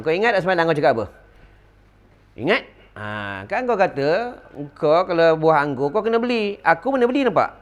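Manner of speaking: put-on old teacher gloating over grapes to his student; triumphant teasing. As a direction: rub it in to the student, playfully. Malik teasing Syafi'i.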